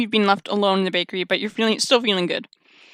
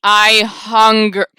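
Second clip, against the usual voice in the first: slow drawn-out creepy voice; mild menacing caller; much slower than usual. Acted. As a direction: stretch it out eerily. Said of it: "I can't do a menacing voice".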